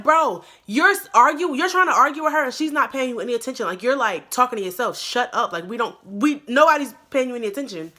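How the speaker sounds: mock argument at full force; retold heated retort. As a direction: argue back hard and quick. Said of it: "I was like".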